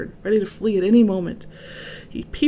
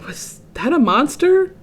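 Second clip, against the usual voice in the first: called out; 7 semitones higher, 4 dB louder than usual. A narrator's reading. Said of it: "Elmer called out".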